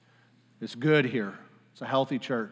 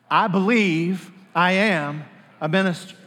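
congregational declaration; 2 semitones higher, slower than usual. Shown as a demonstration. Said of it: "Say it with me".

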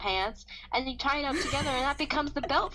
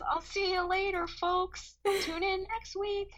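high, hammy heroine farewell; superhero sign-off voice; 9 semitones higher, slower than usual. Retold or imitated. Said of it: "and says".

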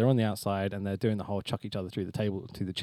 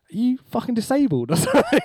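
mock rude question, higher and laughing; laughing through a quote; 12 semitones higher, 5 dB louder than usual. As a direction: crack up while quoting the insult. Retelling wrestler's rude reply laughing.

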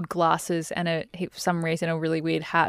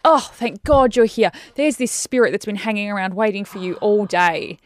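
retold relieved greeting; 2 semitones higher, 5 dB louder than usual. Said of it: "it was literally like".

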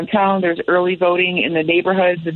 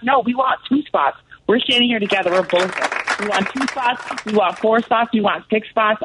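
higher-pitched, rallying restatement; closing argument; 4 semitones higher than usual. Shown as a demonstration. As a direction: make the case like a closing argument. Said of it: "Say that one more time. Give me your closing argument".

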